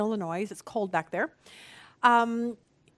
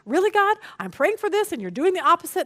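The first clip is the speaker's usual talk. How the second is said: exasperated; 6 semitones higher than usual. Retold or imitated. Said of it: "I was at a point like".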